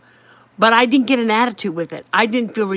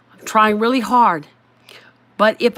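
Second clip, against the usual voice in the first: breathy, unvoiced whisper of an apology. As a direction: whisper it as if confessing. Pleading apology to husband.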